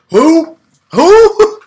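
shrill high squeal of who, loud and far up; mocking who. Mimicking the TikTok guy for a forgotten player, squealing. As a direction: squeak it out like you've never heard of him. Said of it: "he'll be like".

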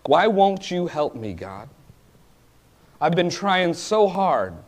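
a worn-out believer pleading with God; indignant plea. Retold or imitated. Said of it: "you get so indignant about it".

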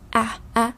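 "a" said with no H before it; không có âm H. Shown as a demonstration. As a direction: open straight on the vowel "a", French-style. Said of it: "Người Pháp ví dụ như đọc là". (đọc "a" không bật hơi H)

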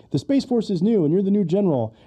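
lightly acted-out military briefing; show character imitation.

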